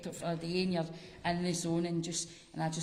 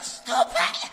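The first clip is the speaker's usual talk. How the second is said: high, breathy mock plea; mock exasperated; 7 semitones higher, 8 dB louder than usual. Comedian to her cousin sending sweet messages, mock exasperated. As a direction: push the kindness away, playfully.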